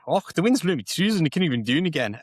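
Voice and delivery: playful Scottish impression; Scottish accent. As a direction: rattle it off like a Scot. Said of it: "go up to Scotland".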